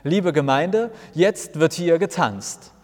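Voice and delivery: a mild preacher's call over the music, slowed at the end. Acted. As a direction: hail the congregation to dance. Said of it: "ruft in die Musik hinein".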